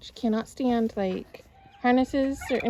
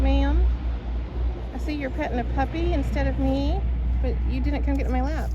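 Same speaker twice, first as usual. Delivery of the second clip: voicing the dog; 3 semitones higher, 6 dB louder than usual. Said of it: "looking at me like".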